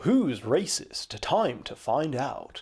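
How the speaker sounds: slow, drawn-out announcer read; game show host voice. Pretend. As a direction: hype it like a TV quiz host.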